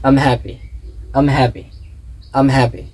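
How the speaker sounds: "I'm" reduced and run straight into "happy"; connected contraction drill. Shown as a demonstration. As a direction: say "I'm happy" as one linked unit, then pause. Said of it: "নেটিভরা কিন্তু এরকম বলে".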